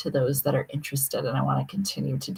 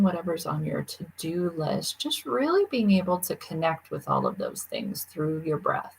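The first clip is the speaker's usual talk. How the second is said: guided meditation. Acted. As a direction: guide listeners gently into noticing their breath and thoughts.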